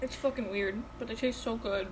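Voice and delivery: talking while chewing chips; mouth full. Real, not acted. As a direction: talk through a mouthful. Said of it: "You sound like an animal when you eat".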